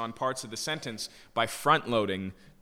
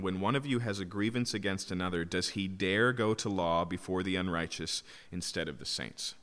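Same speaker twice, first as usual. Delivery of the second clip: "dare" stressed within a lower-pitched reading; 4 semitones lower, 4 dB quieter than usual. Shown as a demonstration. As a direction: lean on "dare" as the key word. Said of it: "I put the emphasis on the word dare".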